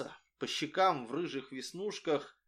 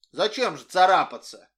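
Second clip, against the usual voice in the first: peaceable; 3 semitones higher, 9 dB louder than usual. A narrator's reading. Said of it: "миролюбиво сказал Митяй".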